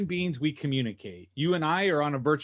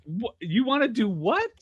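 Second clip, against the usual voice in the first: mock disbelief; 6 semitones higher than usual. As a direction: question climbing high at the end. Acting caller baffled by salesman.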